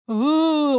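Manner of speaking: loud high drawn-out "ooh". Real, not acted. Yoga teacher yawning in class, loud ooh. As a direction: let out a big, high "ooh". Yawn makes a ghostly sound.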